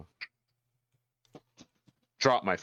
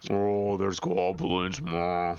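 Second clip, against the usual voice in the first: slow, lightly voiced bear; a hint of a bear, drawn out slowly; 4 semitones lower, slower than usual. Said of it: "Amazing bear impression".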